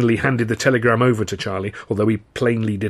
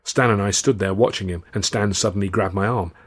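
ordinary delivery

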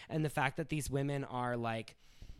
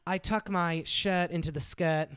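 slow, higher-pitched Hamptons accent, imitated; elevated New York accent; 4 semitones higher, slower than usual. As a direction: do a British-tinged Grey Gardens accent. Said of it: "elevated New York".

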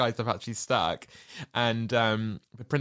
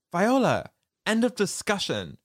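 put-on firm boyfriend; 8 semitones higher, 3 dB louder than usual. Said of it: "her boyfriend's like".

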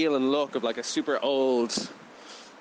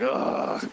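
retold groan. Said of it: "just going, like".

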